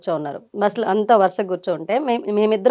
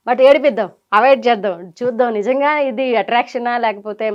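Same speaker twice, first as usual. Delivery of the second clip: playful teasing thoughts; 4 dB louder than usual. Retold or imitated. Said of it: "లోపల వెటకారం ఉంది".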